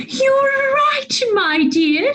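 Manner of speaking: lightly voiced gentle mother bear; soft mummy bear reply; soft growly Mummy Bear. A narrator's reading. Mummy Bear agrees with Daddy Bear, softly growly. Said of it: "she said in her soft, growly, middle-sized voice".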